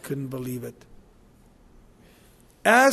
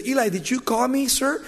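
lightly voiced boy, higher pitch; a higher, questioning call, lightly acted; boy's questioning voice; 6 semitones higher than usual. Boy asks the priest at night, lightly voiced questioning.

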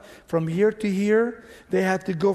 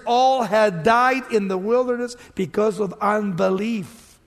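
raised, driving pulpit voice; full-force preaching; 4 semitones higher, 5 dB louder than usual. Real, not acted. Preacher to congregation about provision in the wilderness, preaching forcefully. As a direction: preach it out with mounting wonder.

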